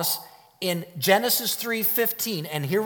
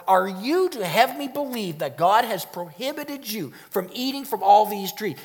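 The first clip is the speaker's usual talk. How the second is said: incredulous questioning at normal pace; interrogative surprise; 4 semitones higher than usual. Shown as a demonstration. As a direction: ask it in disbelief. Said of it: "Do you see the interrogation".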